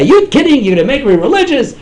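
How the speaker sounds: loud, high scoffing voice; imitating a dismissive secular Jew; mocking skeptic. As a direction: scoff at the idea. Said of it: "they'll say".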